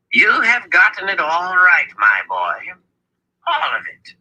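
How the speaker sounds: high-pitched, fond elder; affectionate approval. A narrator's reading. Zed patting Richard on the shoulder, affectionate approval. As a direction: praise him proudly in a high voice. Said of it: "patted Richard affectionately on the shoulder".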